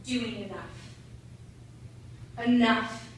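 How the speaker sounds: low, measured voice of self-doubt; low, heavy self-reproach; critical inner voice. Acted. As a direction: press it down as a nagging inner critic. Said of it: "feeds the voice in their head saying".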